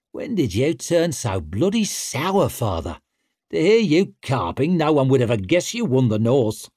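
put-on loud, cocky young war leader; brash young warrior. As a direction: swagger through it. Stour sneering at father.

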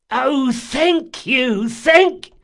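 high, breaking cry of thanks; desperate gratitude. A narrator's reading. Bandit thanking Locke, desperate relief. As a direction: gush with relief.

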